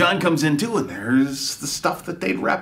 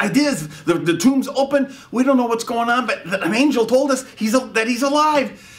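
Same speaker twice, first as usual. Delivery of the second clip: high, loud, pleading insistence; insistent cry; 8 semitones higher, 3 dB louder than usual. Acted. Mary insisting to the doubting disciples, loud and urgent. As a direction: make them believe her, loudly. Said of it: "Mary said".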